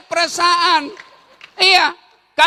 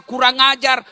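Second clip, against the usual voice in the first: ordinary delivery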